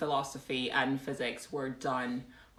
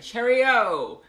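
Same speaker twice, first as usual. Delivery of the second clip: high, loud British sing-out; hammed-up British accent; 6 semitones higher, 9 dB louder than usual. Streamer to a departing viewer, hammed-up British farewell. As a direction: call it out in mock British.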